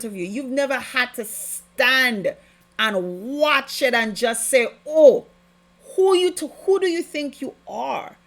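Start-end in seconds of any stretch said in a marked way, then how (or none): 4.9-8.2 higher and louder, sharp, indignant challenge; confrontational challenge. Pretend. Believer standing up to a demon, indignant shout. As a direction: stare it down and demand who it thinks it is.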